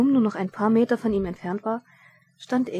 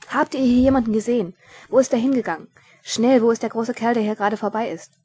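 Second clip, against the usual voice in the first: loud, raised demand for directions; insistent pursuer, pitched up; urgent questioning; 3 semitones higher, 6 dB louder than usual. A narrator's reading. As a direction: fire questions at bystanders mid-chase.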